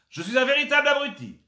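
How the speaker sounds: proud silly announcer cry; shouted catchphrase. Acted. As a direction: belt out the game catchphrase. Catchphrase repeated for the game.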